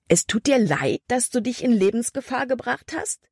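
rising, angry disbelief; incredulous scolding. A narrator's reading. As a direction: throw her apology back at her. Caleb angrily scolding Libby.

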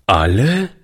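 put-on astonished rising question from the boy; wondering child's echo; surprised boy. A narrator's reading. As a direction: ask it in disbelief, voice lifting. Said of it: "fragte der Junge verwundert".

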